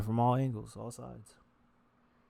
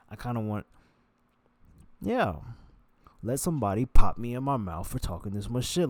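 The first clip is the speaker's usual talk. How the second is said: country voice; 5 dB louder than usual. Acted. Vlogger switching to his country voice, louder. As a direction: talk it like a country boy. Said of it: "I'm gonna go back to the country voice".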